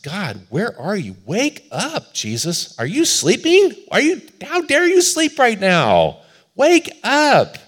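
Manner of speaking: high, loud cry rising to a shout; acted anguished shout to wake someone; desperate plea to God. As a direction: cry out, building to an indignant high-pitched yell. Acts out crying to God in storm.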